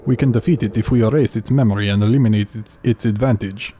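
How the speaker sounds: lightly put-on Russian accent; a game character in a Russian accent. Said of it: "rate my, uh, Russian accent".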